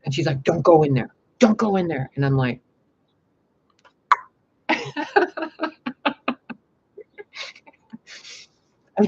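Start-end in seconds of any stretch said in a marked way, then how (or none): 0.4-2.1 louder and pitched up, pleading; the girl begging her not to go in, loud; urgent warning. Retold or imitated. Girl warns her at dark door. 4.7-6.5 a high, reckless burst of laughter; answering the girl with a wild laugh; high mock laugh. Her reply to the warning.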